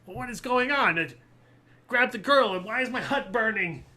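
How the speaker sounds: high, loud hag in a panic; panicked hag. Acted. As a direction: cry out in mounting alarm as the hag. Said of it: "looks panicked".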